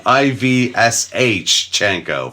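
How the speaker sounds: "I V S H Chenko" spelled out letter by letter, slowly; spelling it out. Shown as a demonstration. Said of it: "too many S H C H in a row".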